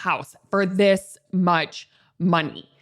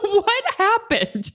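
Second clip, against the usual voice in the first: laughing repeat; 11 semitones higher, slower than usual. Retold or imitated. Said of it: "he was the one who mentioned".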